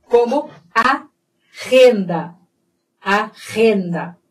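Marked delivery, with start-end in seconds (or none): 1.7-4.2 "renda" starting with a rasped H from the throat; throaty Spanish G. Shown as a demonstration. Teacher models Spanish agenda, throaty G in "renda". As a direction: scrape the first consonant of "renda" in the throat. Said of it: "é som de R".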